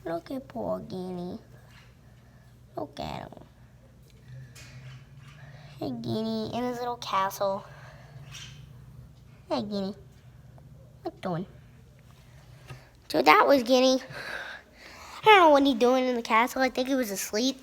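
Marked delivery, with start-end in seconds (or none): 0.0-11.5 soft hushed coo to a pet; whispering. Real, not acted. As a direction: hush it so he sleeps on. Whispering to sleeping hamster.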